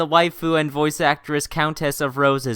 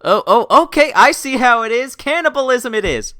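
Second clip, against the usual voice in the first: higher and louder, mock shocked; surprised; 9 semitones higher, 7 dB louder than usual. Real, not acted. Streamer reacting to Rose choosing blood and guts, mock shock. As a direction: recoil in playful alarm.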